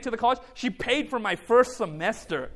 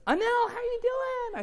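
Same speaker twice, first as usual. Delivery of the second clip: imitating finance lady; 11 semitones higher, slower than usual. Retelling the finance lady's cheerful greeting.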